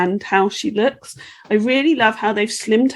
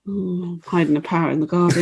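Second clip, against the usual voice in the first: lower, suggestive mock come-on; playful fake seduction with amusement; mock innuendo; 4 semitones lower, faster than usual. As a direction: say it like a naughty euphemism. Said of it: "that sounds like a euphemism".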